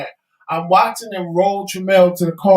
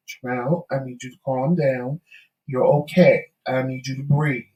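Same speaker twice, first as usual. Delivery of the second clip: soothing calm-down; 5 semitones lower, 3 dB quieter than usual. Retold or imitated. Calming husband's panic in car.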